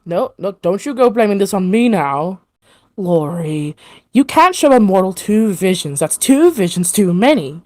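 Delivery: lightly voiced defensive woman; a touch of indignant protest; arguing woman. Second of three women refusing the blame, arguing. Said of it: "these three women arguing".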